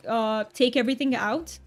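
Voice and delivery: amateur English accent put on for fun; hammed-up mock British; terrible British accent. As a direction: do a playful, imperfect British accent. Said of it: "I've been doing the British accent".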